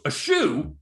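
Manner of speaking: questioning blurt, lightly imitated; imitating his delivery. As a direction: mimic his abrupt question. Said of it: "it was the way he said it".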